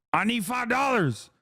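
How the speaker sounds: high-pitched, hammed-up plea; exaggerated high wail for money; mock begging. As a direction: beg desperately, as a parody. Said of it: "I'm begging you".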